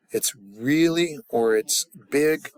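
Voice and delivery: "really" and "big" stretched out slowly; slow, enlarging stress on "really" and "big"; drawn-out emphasis. Shown as a demonstration. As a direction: lean long on "really" and "big". Demonstrates emphatic, enlarging meaning.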